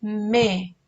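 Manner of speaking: "Mejilla" in three beats with long pauses; syllable by syllable. Shown as a demonstration. Teacher helping children find the first syllable, "Mejilla" syllable by syllable. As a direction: break "Mejilla" apart as me, ji, lla. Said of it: "cuál sería la sílaba inicial".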